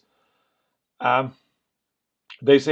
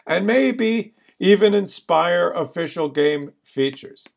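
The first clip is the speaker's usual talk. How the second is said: incredulous mocking read; 2 semitones higher, 3 dB louder than usual. Real, not acted. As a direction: read each phrase with heavy emphasis and long pauses. Mockingly rereading the policy aloud.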